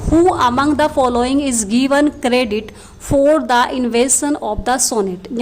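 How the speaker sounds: slow, careful reading of a quiz question. Acted. Teacher reading a multiple-choice question aloud, slow and careful. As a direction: read the question deliberately for the class.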